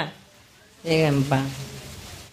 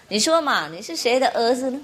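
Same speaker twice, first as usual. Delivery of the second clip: higher, coaxing teacher voice; teacher nudging the boy in class, a bit higher; teacher pressing; 5 semitones higher than usual. Retold or imitated. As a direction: lightly play the teacher pushing for an answer. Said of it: "然后那个老师说".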